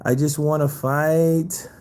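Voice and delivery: very slow, lightly voiced heavyweight; a hint of Andy Ruiz, drawn out; lightly imitating a humble boxer; Andy Ruiz impression. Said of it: "And Andy".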